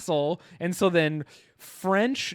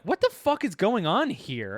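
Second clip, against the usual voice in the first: mock bewildered outburst, higher pitch; baffled demand; 4 semitones higher than usual. Americans arriving at the castle, baffled. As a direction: act out a confused soldier demanding answers.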